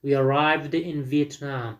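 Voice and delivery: slow teacher's reading with a D ending on "arrived"; measured listen-and-repeat sentence, "arrived" ending in D; model for repetition. Shown as a demonstration. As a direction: say "arrived" with a clear voiced D, slowly. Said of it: "listen repeat the sound and sentences".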